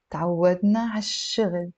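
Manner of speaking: ع الشغل joined as one word, 'ash-shughl; liaison. Shown as a demonstration. Teacher repeating the linked phrase, with liaison. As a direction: say تعودنا ع الشغل smoothly with no break after ع. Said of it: "We can do a liaison".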